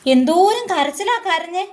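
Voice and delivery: slow, laughing tease; teasing laugh. Real, not acted. Mother teases child for crying, laughing.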